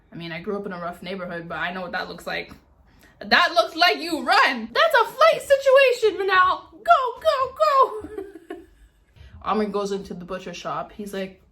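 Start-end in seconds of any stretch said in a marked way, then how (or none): 3.2-8.2 high, loud panicked urging; urging herself to flee the fight; urgent. Real, not acted. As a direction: tell yourself to run, now. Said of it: "urging herself to run".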